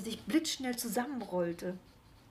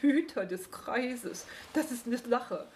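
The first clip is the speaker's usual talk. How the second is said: scoffing; 3 semitones higher than usual. Acted. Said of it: "prustete der Igel".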